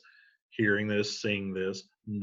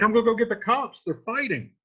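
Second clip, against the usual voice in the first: much higher and louder, fast, panicked; panicked page; 10 semitones higher, 5 dB louder than usual. Retold or imitated. The page running for the watch, panicked fast cry. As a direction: blurt it out in a rush. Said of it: "He's like".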